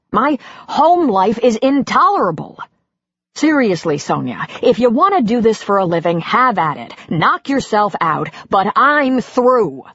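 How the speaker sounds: husband unloading on his wife, exasperated. Acted. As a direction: vent years of frustration.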